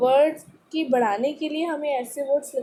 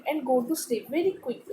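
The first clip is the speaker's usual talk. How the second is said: slow, clear read-aloud for a class; much slower than usual. Acted. Teacher reading the paragraph to students, slow and clear. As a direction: read each word slowly to pupils. Reads text slowly.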